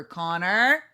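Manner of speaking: lightly acted stern dad. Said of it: "You get louder and your voice is deeper".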